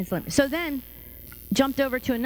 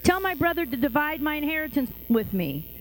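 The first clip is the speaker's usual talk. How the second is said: higher-pitched mock call to a teacher; mock crowd yell; 5 semitones higher than usual. Man in the crowd calls to Jesus, mild yell. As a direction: call out like a heckler, only lightly raised. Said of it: "somebody in the crowd yells".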